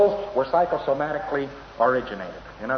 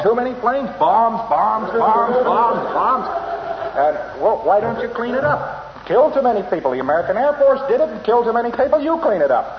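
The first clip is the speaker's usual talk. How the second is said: higher and louder, a mock aggrieved German; imitating a complaining German; 7 semitones higher, 3 dB louder than usual. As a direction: whine it like a German blaming the bombers. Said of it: "if you were to ask a German".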